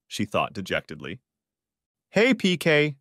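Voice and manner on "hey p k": shouting. A narrator's reading. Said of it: "shouted a female voice".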